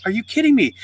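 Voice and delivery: high-pitched retold disbelief; mock outrage, pitched well up; incredulous kid. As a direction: act out a boy's indignant question. Boy told to pay again.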